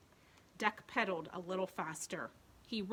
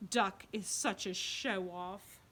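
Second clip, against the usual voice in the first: grumbling pig voice; slower than usual. Acted. Pigs' thought.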